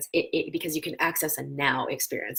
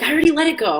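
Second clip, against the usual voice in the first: miffed letting go; 10 semitones higher, 8 dB louder, much faster than usual. Retold or imitated. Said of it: "he's like".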